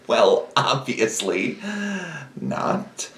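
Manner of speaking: trailing off to a mumble; sheepish aside. Acted. Regdar muttering the copyright excuse quietly. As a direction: drop the voice low and hush it.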